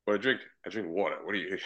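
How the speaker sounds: casual New York Italian accent; New York accent on "water". Shown as a demonstration. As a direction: answer like a New Yorker. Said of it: "And this with the accent".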